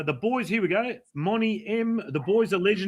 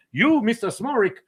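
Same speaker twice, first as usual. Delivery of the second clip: doctor voice; 4 semitones higher, 3 dB louder than usual. Retold or imitated. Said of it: "And he goes".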